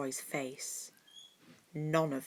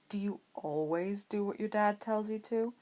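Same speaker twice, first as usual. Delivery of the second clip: curious; 4 semitones higher than usual. A narrator's reading. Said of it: "Blaise asked curiously".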